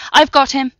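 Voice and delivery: loud, high shout while running; yelling. Acted. Brendan yelling to his team as he runs, loud. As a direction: call it out as he charges off.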